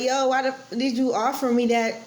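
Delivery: retold angry demand, pitched high; mad at him. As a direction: confront him outside, upset. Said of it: "yo, I was so mad at him".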